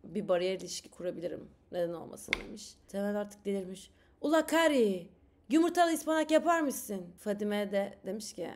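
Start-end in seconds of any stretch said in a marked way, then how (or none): 4.2-7.1 a loud, higher Black Sea husband calling his wife; Black Sea accent calling out. Acted. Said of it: "O zaman şiveli yapayım". (karısına yüksek sesle seslenen Karadenizli Temel)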